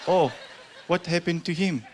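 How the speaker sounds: put-on high, curious little kid asking; a wide-eyed child's question. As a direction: innocent grandkid asking Papa. Child asking grandpa's fate.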